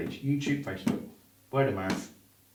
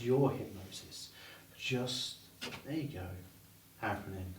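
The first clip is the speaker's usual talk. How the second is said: much softer hypnotic voice; soft induction; 5 dB quieter than usual. Shown as a demonstration. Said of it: "chair spin induction".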